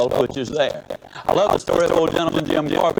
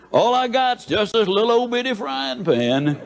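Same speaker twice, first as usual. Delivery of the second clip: higher, whining mock plea; mock whine; 9 semitones higher than usual. Speaker mocks people shrinking their goals, high whining plea. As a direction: whine it like a scared believer. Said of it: "we say".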